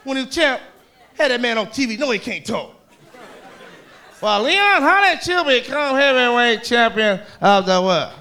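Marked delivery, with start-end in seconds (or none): 4.2-8.1 slow, measured sportscaster drawl, lightly voiced; a light Cosell-style TV interviewer; Howard Cosell impression. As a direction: lay on the TV interviewer voice. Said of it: "Howard Cosell was cold to Leon".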